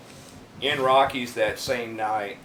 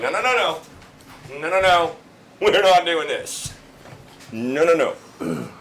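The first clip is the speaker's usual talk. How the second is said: loud, drawn-out string of no's; retold firm refusal; 4 semitones higher, 5 dB louder than usual. Bouncer telling guys they won't fight, loud firm refusal. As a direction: shut it down loudly, slowing as you go.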